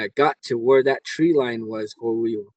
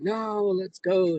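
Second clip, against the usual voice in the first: higher, slow, firm no; firm refusal; 8 semitones higher, much slower than usual. Retold or imitated. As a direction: refuse flatly and drag them on. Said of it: "I said".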